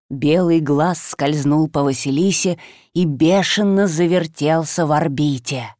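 usual speaking voice

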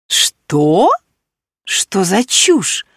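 sharp outburst, then slow indignant question; shocked and scornful; exclaimed in disbelief. Acted. Marina exclaiming at a ridiculous accusation. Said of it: "воскликнула Марина".

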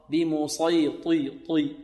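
slow بمسيطي ending on a heavy طي; correct heavy ط. Shown as a demonstration. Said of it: "لا نقول بمسيطر". (طاء مستعلية مطبقة)

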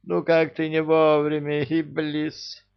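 high, slow exasperated groan. A narrator's reading. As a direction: groan at the bad timing. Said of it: "простонал король джиннов".

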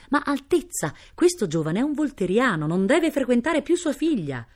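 high-pitched, agitated objection; indignant protest. A narrator's reading. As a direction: object urgently, unable to stay silent. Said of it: "non poteva più star zitto". (protesta indignata)

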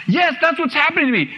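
high-pitched imitation of a tearful youngster; mock crying. Young person confessing to the minister, mock tearful. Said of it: "they'll start crying".

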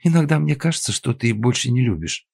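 hurt, near tears; upset wife's complaint. A narrator's reading. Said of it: "расстроенный голос Киры".

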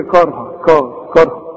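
"كارها" with a thick, backed first syllable; heavy Kaf like Qaf. Shown as a demonstration. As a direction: push "كارها" back towards a Qaf. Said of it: "تروح أنت للقاف وتقولها". ("كارها" بكاف مفخمة زي القاف)

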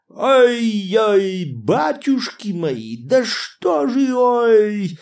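высокие громкие возгласы сквозь смех; захлёбываясь от хохота; сквозь хохот. A narrator's reading. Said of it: "разразился громким, раскатистым смехом". (громко, сквозь раскатистый смех)

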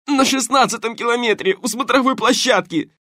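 high loud thug shouting, begging; panicked shouting. Acted. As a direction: blurt it all out in pain. Грабитель кричит под пыткой. (крик грабителя под болью)

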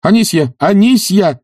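high, urgent shout for a servant; acted high-pitched yell; calling out. A narrator's reading. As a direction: call her in, pitch climbing. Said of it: "закричал Обломов".

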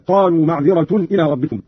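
معذرة read with u-ending, ma'dhiratun; Qalun's reading. Shown as a demonstration. Teacher showing Qalun's reading, معذرة ending in -tun. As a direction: end معذرة on nominative -tun. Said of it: "قرأ قالون برفع التاء هكذا".

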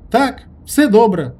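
high, loud, slow cheerful reply; joyful. A narrator's reading. Priest reassuring Herman after the talk, joyful reply. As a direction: beam as you reassure him. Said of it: "радісно підтвердив священник".

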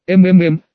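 a lightly voiced sleepy hum; drawn-out groggy mmm. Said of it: "протянула блондинка".

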